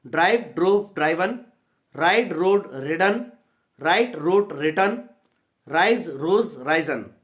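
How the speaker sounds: chanted in a rising-falling rhyme pattern; sing-song drill of verb forms; rhythmic recitation. Shown as a demonstration. Teacher chanting verb forms for students to repeat, sing-song. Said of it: "rhyming order पर गाने जैसी".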